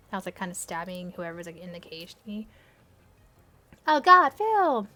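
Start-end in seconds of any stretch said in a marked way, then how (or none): 3.9-4.9 slow loud anguished cry; screaming. Acted. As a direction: cry out his name. Narrated scream acted.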